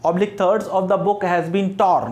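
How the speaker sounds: very slow, word by word reading; slow classroom dictation pace. Shown as a demonstration. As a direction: read the sentence out slowly for dictation. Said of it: "देखो, मैंने कहा".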